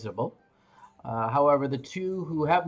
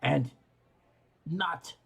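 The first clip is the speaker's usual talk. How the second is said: speaking Dwarvish; 3 semitones higher than usual. Acted. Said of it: "switching over to Dwarvish".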